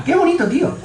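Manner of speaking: amazed friend again. Retold or imitated. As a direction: push the amazement further. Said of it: "lo que dice es". (asombro todavía más agudo)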